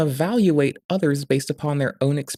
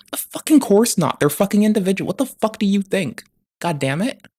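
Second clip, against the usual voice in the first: louder, higher, fed-up rant; exasperated outburst; 5 semitones higher, 3 dB louder than usual. Real, not acted. Ranting at people who call partisans a monolith, exasperated and loud. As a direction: throw the question at the whole crowd.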